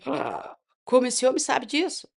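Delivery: gasped, mildly astonished question; retold shock. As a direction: act out being taken aback. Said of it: "Aí eu fiquei muito chocada".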